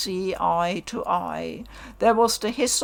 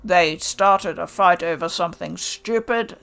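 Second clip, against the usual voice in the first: harsh contempt; 2 semitones lower than usual. Acted. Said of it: "His voice cracked like lightning".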